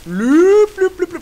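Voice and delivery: excited. Real, not acted. Urgent callout while fleeing.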